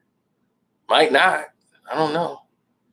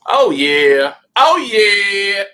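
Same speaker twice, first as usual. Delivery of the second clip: gleeful cheer; 4 dB louder, much slower than usual. Real, not acted. Celebrating a score.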